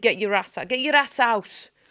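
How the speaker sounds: play-acted, loud, high, repeated shouting. Recalling a man shouting from a passing van; retelling a man's shout.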